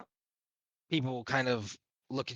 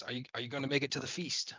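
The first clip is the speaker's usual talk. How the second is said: gruff half orc; faster than usual. Acted. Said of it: "in a gruffled voice".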